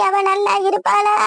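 shouted curse, slow and bitter; angry curse. Acted. Grieving mother shouting a curse at her son's wife. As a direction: hurl the curse at her, dragging it out. Mother cursing the daughter-in-law.

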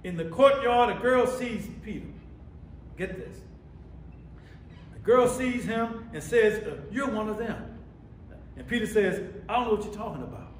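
preacher voicing each side of the exchange; preaching a Bible story. Real, not acted. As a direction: tell it to the congregation with force.

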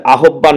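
আহ্বান spelled out as a-ho-bban, with h and b both sounded; the common mistake, আহ্বান read letter by letter; wrong pronunciation. Shown as a demonstration. Teacher showing students the wrong way to say আহ্বান. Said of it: "এটার উচ্চারণটা হবে আহ্বান".

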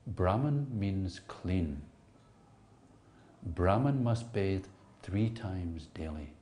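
slow, gentle teaching; a soft, patient correction from a teacher; said softly. Retold or imitated. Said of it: "he said softly".

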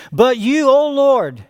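plaintive cry. Acted. Preacher voicing the psalmist's plea to God, plaintive cry. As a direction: cry out for God to come near. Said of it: "introduced by the plaintive cry".

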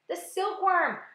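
high, loud cry of discovery; loud, eager outburst. A narrator's reading. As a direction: exclaim it excitedly. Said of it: "cried the old green grasshopper".

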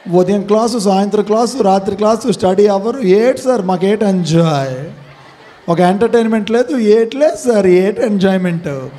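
imitated student whine, listing grievances; complaining student.

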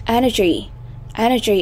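"Energy" modelled carefully, EN-er-gy; first-syllable stress. Shown as a demonstration. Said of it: "âm thứ nhất".

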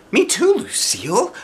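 put-on high, eager little-girl voice; Junie B voice. A narrator's reading. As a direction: chirp it like an excited kindergartner. Junie B character voice.

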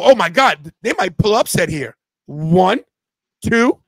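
loud, rising count along with the pin; real thrill as the upset nearly happens; excited live reaction. Real, not acted. Host reacting live to a near-fall on screen, excited.

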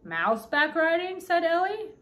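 slow, high, incredulous question; drawn-out disbelief; surprised. A narrator's reading. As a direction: echo it back, pitch climbing in surprise. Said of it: "There is no reason to sound surprised".

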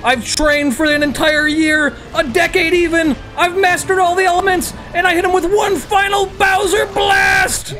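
hammed-up avatar challenge; heroic speech. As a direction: declaim like a cartoon hero.

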